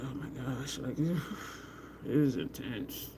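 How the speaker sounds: slow, breathless hush through the pain; overwhelmed hush. Retold or imitated. Retelling the needle treatment to viewers, slow breathless hush. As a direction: let the intensity drain your voice as you whisper it. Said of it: "I was just like".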